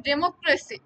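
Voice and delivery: ডেমোক্রেসি with ক্রে stressed; stress on second syllable. Shown as a demonstration. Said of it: "আপনাদেরকে উচ্চারণ করতে হবে".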